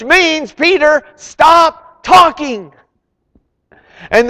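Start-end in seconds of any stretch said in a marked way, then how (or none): 0.5-2.7 slow shouted rebuke, high and loud; divine rebuke. Acted. God ordering Peter to stop talking, slow loud shout.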